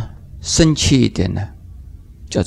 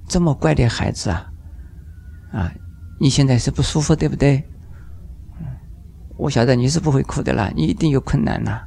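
softer, gentle coaxing voice; soothing a crying baby; 6 dB quieter than usual. Acted. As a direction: coax a crying child softly, like a kind parent. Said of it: "个小孩子在哭". (轻声细语地哄哭闹的小宝宝)

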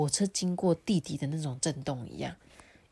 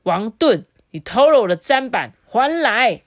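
much louder, higher, demanding it back; breathless yell; 6 semitones higher, 9 dB louder than usual. Acted. Worn-out brother still demanding his board back, loud and winded. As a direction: gasp out the demand after a long fight. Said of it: "喘着气说".

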